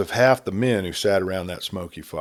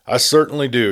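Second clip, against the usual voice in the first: firm, slightly louder and higher conviction; profound conviction; 4 semitones higher, 6 dB louder than usual. A narrator's reading. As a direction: say it like a solemn promise. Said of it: "he said with profound conviction".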